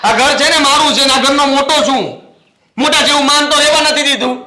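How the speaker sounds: elder brother losing patience, building anger; fed-up outburst. Acted. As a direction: vent at the endless fights. Elder brother vents about quarrels.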